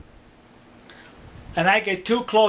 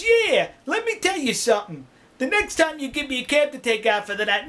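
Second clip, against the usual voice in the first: indignant, higher-pitched retort; retold telling-off; 5 semitones higher than usual. Cab driver tells off the garage attendant, indignant. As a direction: give him a piece of your mind, acted.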